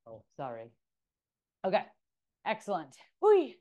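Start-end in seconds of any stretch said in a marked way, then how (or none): 3.2-3.6 high, loud playful squeal; gleeful whee. Real, not acted. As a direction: let out a happy little whoop. Instructor cheering during workout.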